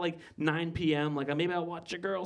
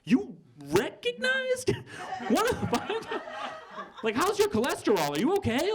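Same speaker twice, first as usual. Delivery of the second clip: mock astonishment. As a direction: squeal it like you can't believe it. Comic shock at the clerk.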